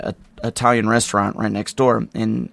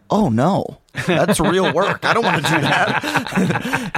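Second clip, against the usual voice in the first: mock high refusal; 7 semitones higher, much slower than usual. Quoting Mitch Hurwitz declining.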